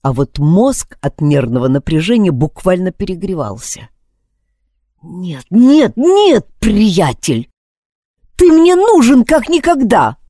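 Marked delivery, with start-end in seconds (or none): 5.0-10.2 high, loud panicked pleading; desperate plea. Acted. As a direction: beg the phone not to fail. Pleading with the phone.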